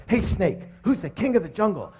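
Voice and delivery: hint of a cocky jungle king; boastful lion. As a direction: call out to a lesser animal, a little high. Lion challenges snake in joke.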